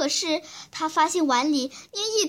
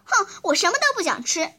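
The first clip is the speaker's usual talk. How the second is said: stubborn huff, higher and fast; 5 semitones higher, 3 dB louder, faster than usual. Acted. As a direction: stamp out a defiant refusal. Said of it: "小孩子倔强地".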